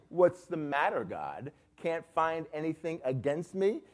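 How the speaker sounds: mock-arrogant taunt, rising at the end; Job. Job openly challenging God, arrogant. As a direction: taunt smugly, ending on a pointed question. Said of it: "this is arrogance here".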